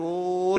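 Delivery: long drawn-out mock wail; hammed-up group bawling; imitated wail. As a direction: imitate a busload crying with one long "oh". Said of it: "అని ఏడుస్తున్నారు".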